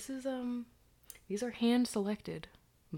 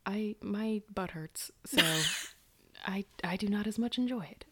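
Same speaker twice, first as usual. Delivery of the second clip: ASMR whisper. Acted. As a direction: whisper close to the mic.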